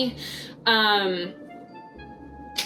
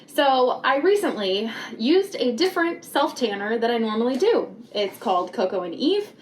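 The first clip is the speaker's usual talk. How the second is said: muffled through a paper bag; talking with a bag over your head; 3 semitones higher than usual. Real, not acted. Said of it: "why the heck I have a bag on my head".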